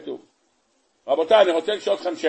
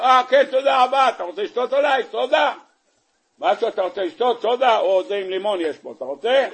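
mock cheerful hostess; 4 semitones higher than usual. Wife hosting the angel, acted.

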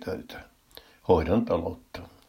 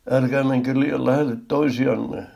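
loud, higher-pitched call over a crowd; shouted warning; 6 semitones higher, 5 dB louder than usual. A narrator's reading. Someone warns the crowded shoppers to keep apart, shouting. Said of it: "huusi joku".

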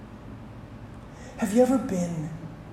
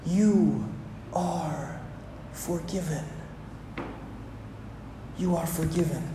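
soft declaration; 6 semitones lower, 14 dB quieter than usual. Real, not acted. Pastor softly assuring the church they are forgiven. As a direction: let each word land gently.

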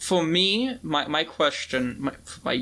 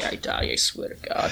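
whisper; 4 dB quieter than usual. Real, not acted. Muttered vow about the show.

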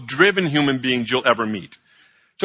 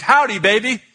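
lightly imitated Texan greeting, pitched up; higher Texas-accented howdy; 4 semitones higher than usual. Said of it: "it was in a Texas accent".

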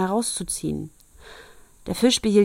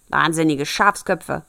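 snarling dwarf; 4 dB louder than usual. Acted. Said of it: "schnarrte der Zwerg".

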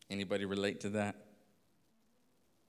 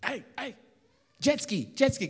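high, loud calls across the beach; retold yelling; 12 semitones higher, 4 dB louder than usual. Stranded on the beach, yelling to hotel staff for help, loud calls. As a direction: shout it to strangers who can't understand. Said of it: "I was yelling at them".

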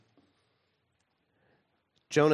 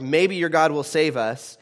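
hopeful captain; 5 semitones higher, 5 dB louder than usual. Retold or imitated. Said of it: "The captain is like".

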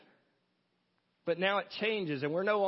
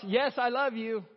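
cross's voice; 3 semitones higher, slower than usual. Pretend. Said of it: "The cross forever shouts".

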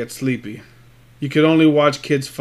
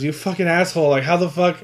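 rising to an indignant shout; outraged yell; 4 semitones higher, 7 dB louder than usual. Retold or imitated. Trainee yelling at the trainer for the racket, rising to a shout. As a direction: yell at him in disbelief.

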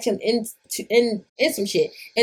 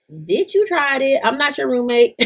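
roommate voice; 5 semitones higher than usual. Retold or imitated. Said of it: "Why I said it in that voice?".

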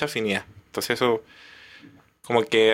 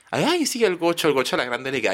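mocking quote; 5 semitones higher than usual. Mocking merideños claiming the gocho.

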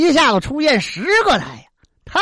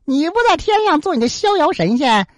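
mild taunting; 3 semitones higher than usual. Acted. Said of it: "反而叫嚣上了".

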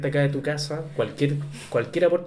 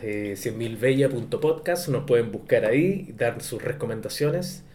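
robot voice; 2 semitones lower than usual. Acted. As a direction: read it out like a robot. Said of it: "estoy hablando como robot".

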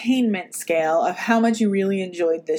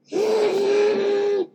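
dragon growl laugh; 12 semitones higher than usual. Pretend. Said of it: "can you say bye, Charlie, in that, that dragon voice".

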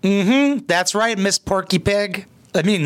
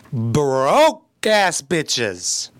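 dragged out very slowly with contempt; slow contemptuous jab; scoffing drawl; 3 semitones lower, much slower than usual. Real, not acted. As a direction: stretch each word out in disdain. Scoffing at the cheap room.

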